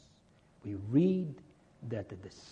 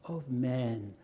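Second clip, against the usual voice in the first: slow, hushed amazement; slow down and marvel; awed wonder; slower than usual. Retold or imitated. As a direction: awe at the miracle. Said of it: "they say".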